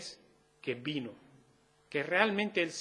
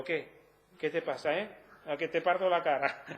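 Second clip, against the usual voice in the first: mock swagger. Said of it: "alguien orgulloso diciendo".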